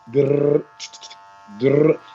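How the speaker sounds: half-hearted mock typewriter growl; a lazy imitation of a typewriter carriage; lazy typewriter noise. Shown as a demonstration. Barber miming a typewriter for the class, lazy mock noise. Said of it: "That is not the sound, uh, a typewriter makes".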